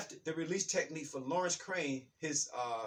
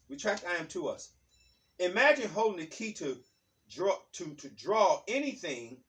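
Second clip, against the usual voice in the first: reading aloud; 4 dB louder than usual. Acted. Teacher reading a book passage to listeners, measured reading aloud. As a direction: read it out deliberately, phrase by phrase.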